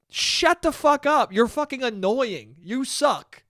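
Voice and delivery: slow, drawn-out mock exasperation; exasperated telling-off. Comedian imagining telling off the woman, exasperated. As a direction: draw out each word, fed up.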